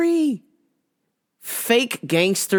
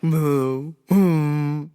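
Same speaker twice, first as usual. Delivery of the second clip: mocking moo. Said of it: "totally making fun of us".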